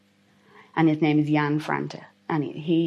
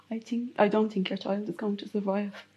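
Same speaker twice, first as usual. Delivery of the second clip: hushed, careful retelling of a doctor; gentle bad news; 2 semitones higher, 7 dB quieter than usual. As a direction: break the news softly, as the doctor did. Doctor kneels to break bad news.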